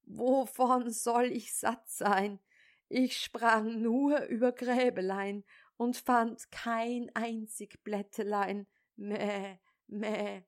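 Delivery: hohe, jammernde Ziegenstimme mit Meckern am Ende; klagende Ziege. Acted. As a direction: beschwer dich wie eine hungrige Ziege. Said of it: "Das boshafte Tier antwortete". (Ziege klagt dem Vater, lügend hungrig, meckernd)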